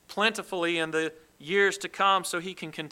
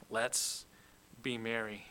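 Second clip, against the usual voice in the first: quiet; 7 semitones lower, 11 dB quieter than usual. Acted. Contented rich man trailing off.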